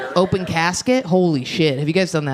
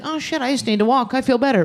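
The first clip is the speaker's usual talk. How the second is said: put-on relieved girl, higher; imitating a depressed girl giving up halfway, relieved and higher; mock relieved girl; 8 semitones higher than usual. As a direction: sigh it out like a quitter who feels better. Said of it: "you'd be like".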